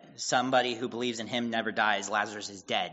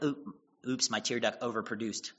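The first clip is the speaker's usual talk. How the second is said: mock dainty crying; 5 dB quieter than usual. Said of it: "type crying".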